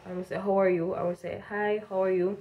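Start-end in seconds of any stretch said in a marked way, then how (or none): 0.4-1.0 lightly put-on American twang. Cashier greeting a customer, light American twang. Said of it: "start talk like them". 1.5-2.4 careful American-style cashier greeting, light twang. Acted. Cashier saying hello to customers, light American twang. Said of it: "start talk like them".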